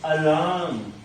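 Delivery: अलार्म as alahm, no r; r dropped alarm. Shown as a demonstration. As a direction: drop the r. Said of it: "आर को drop कर दो". (आर छोड़कर अलार्म)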